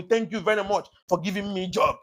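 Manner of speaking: grateful hailing. Retold or imitated. Politician thanking the voters who hired him, mock-grateful hail. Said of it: "hailing you and telling you".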